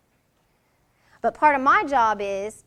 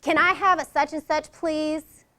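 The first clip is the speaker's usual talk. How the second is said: curt request; 3 semitones higher, 3 dB louder than usual. Shown as a demonstration. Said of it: "we're not gonna".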